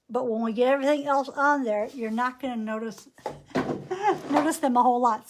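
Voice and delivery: talking around a paintbrush held in the teeth; brush in mouth. Real, not acted. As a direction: mouth full, words slightly blocked. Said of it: "Sorry, I've got my brush in my mouth".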